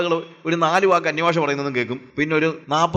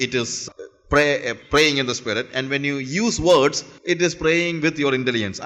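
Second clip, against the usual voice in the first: very slow, every word set apart; slow deliberate English; 4 semitones lower, much slower than usual. Acted. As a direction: spell it out slowly for the congregation, each word weighed. Slow English restatement to congregation.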